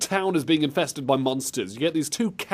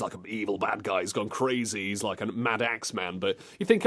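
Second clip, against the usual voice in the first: ordinary talk, nothing marked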